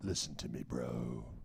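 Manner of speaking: very low, soft, heavy deep male voice.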